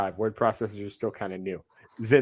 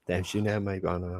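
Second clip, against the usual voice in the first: softer, badly faked British accent; terrible British accent; 2 semitones lower, 3 dB quieter than usual. Host repeating his line after mocking himself, bad British accent. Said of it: "my terrible British accent".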